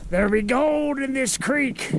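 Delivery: lightly voiced old prospector, slow; a hint of a hammy 1800s gold miner. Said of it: "eighteen hundreds gold miner voice".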